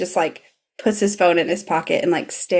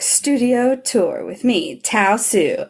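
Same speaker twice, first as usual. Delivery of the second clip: slow, lightly imitated film narrator; 4 semitones higher, slower than usual. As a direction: introduce your little film, drawn out. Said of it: "now narrating his little film".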